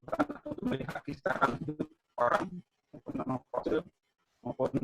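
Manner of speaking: choppy, breaking-up audio; bad connection. Real, not acted. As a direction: voice cutting in and out. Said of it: "suaranya putus-putus".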